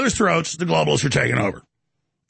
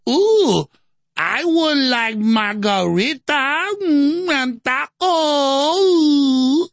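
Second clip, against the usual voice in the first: absurdly stretched, high fake Hispanic accent; mock Hispanic accent; 7 semitones higher, much slower than usual. Relative ordering at a Mexican restaurant, exaggerated fake Hispanic accent. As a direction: drag every vowel out in a hammed-up Hispanic accent. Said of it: "they don't even have a Hispanic accent".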